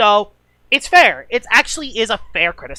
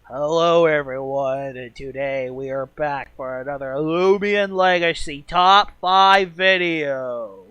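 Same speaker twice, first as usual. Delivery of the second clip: mock dead-boring, low, drawn-out voice; 6 semitones lower, 5 dB quieter than usual. Recalling how a top five video was opened: put-on boring voice. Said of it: "I talked in its most boring voice of all time. I talked like".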